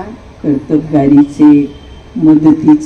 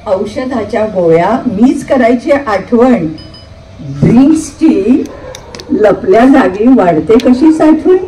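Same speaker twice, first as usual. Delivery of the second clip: comic verse recitation; 5 semitones higher than usual. Acted.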